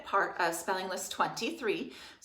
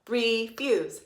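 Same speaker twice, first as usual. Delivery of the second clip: pounding the word; 2 semitones higher than usual. Shown as a demonstration. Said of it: "Pound with one more time".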